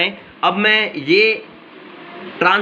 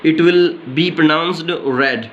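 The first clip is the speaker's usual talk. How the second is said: slow teaching demo; much slower than usual. Shown as a demonstration. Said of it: "रीड की जो second form".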